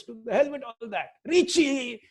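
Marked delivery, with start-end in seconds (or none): 1.2-2.0 high imitated call for her child; mother calling. Mother ignoring his swami status, high calling voice. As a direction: call the name out, pitched up and drawn out. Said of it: "his mother would call".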